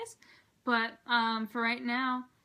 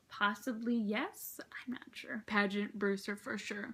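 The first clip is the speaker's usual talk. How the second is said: whispering; 5 dB quieter, slower than usual. Real, not acted. Confessing fangirl devotion.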